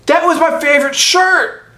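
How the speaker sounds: high, hammed-up wail over a ruined shirt; mock Nick Cage outburst. Mocking Nick Cage wailing about his ripped favorite shirt, hammed-up high yell. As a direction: squeal it like an overacting star mourning his shirt. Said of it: "And Nick Cage literally, like".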